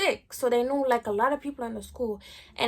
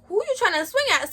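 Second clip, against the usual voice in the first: furious challenge; 8 semitones higher, 4 dB louder than usual. Retold or imitated. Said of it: "I'm like".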